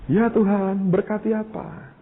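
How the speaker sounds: high, puzzled question to God; ask, caught off guard; surprised question. Retold or imitated. (bertanya kaget dengan nada tinggi)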